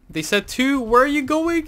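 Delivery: loud, pitch climbing very high; incredulous shout. Real, not acted. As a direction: shout after a straying teammate, voice soaring. Calling after straying teammate.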